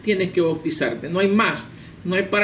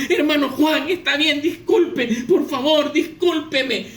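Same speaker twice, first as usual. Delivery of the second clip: higher-pitched, pleading acted apology; apologetic pastor; 7 semitones higher, slower than usual. Pastor begging the man he struck for forgiveness, flustered apology. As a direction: beg pardon in a flustered, raised voice. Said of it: "el pastor se acerca donde el hermano Juan".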